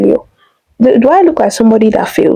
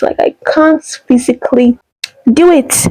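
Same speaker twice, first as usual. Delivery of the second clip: on the verge of tears; 3 semitones higher than usual. Real, not acted. She tells viewers about her failed admission, voice breaking. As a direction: voice breaking, real tears at the end.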